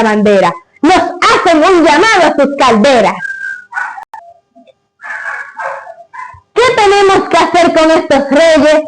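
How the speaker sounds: solemn recited verse; grand poetry declamation. Acted. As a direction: declaim it like a poem. Recites the father's poem.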